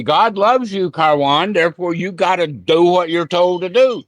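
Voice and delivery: mock preacher's command to Karwan; preachy quote again. To student Karwan, mocking a preacher's demand. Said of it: "seen it that way?".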